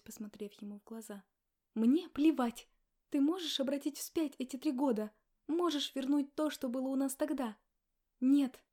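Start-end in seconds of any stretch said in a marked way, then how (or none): 1.7-7.6 loud, higher furious shouting; angry outburst. Acted. Wife shouting at husband about lost years, furious. 8.2-8.6 sharp loud higher "Нет". Acted. Wife answering for husband, loud and sharp. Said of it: "громко ответила за него".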